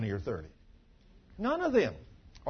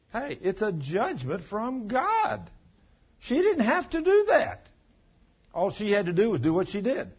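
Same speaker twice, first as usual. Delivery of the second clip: preaching at full force; 7 semitones higher, 4 dB louder than usual. Real, not acted. Preacher warning the congregation, loud and high-pitched. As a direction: thunder it from the pulpit.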